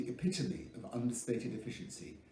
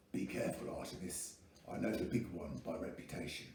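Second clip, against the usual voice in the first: low, hushed warning whisper; 5 semitones lower, 6 dB quieter than usual. A narrator's reading. Bodyguard warns his young charge in a whisper. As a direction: lean in and breathe the warning into his ear. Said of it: "bent low to whisper in his charge's ear".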